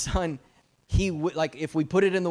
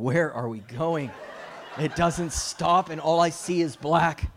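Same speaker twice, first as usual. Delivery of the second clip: slow, drawn-out comic complaint, louder by the end; mock bewilderment; 2 semitones higher, 4 dB louder than usual. Preacher retelling last night's drive here, mock bewilderment. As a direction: play up being lost, stretching it out.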